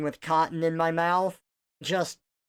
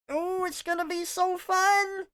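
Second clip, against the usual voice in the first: much higher, bubbly tutorial host voice; kids' software host; 13 semitones higher than usual. Pretend. Playing the kids' software host for chat, high and peppy. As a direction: chirp it out like a cheesy kids' program guide. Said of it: "You are the Toon Pirate software now".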